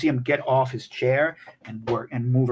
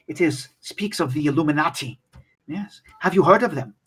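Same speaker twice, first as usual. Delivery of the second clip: old scholar showing a rare book, lightly voiced; 3 semitones higher, faster than usual. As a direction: play a fussy old scholar, only a light touch.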